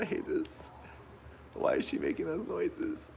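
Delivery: freaking out alone in the dark; real fright, voice climbing high; panicked. Real, not acted. Alone in dark horror game.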